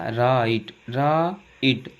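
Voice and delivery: "राइट" split as रा-इट; teacher's broken-up model of "राइट"; sounded out. Shown as a demonstration. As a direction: separate the two halves of "राइट". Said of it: "आई की sound में".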